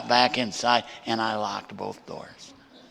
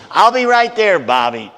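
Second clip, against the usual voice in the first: eager reply; 9 semitones higher, 11 dB louder than usual. Retold or imitated. Bobby eagerly answers the phone.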